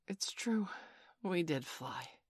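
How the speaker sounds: hushed, half-whispered murmur; sleepy mutter. A narrator's reading. John rubbing his eyes after flying, muttering. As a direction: mutter it as if barely awake. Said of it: "rub his eyes and mutter".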